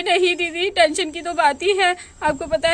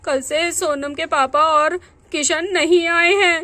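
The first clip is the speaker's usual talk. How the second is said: tearful worry. Acted. Wife tells friend of missing husband, close to crying. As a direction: voice catching on a sob.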